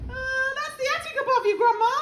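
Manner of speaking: high, loud worried call; called-out warning. A narrator's reading. George warning Grandma about the attic, calling out. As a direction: call up to warn her. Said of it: "George called out".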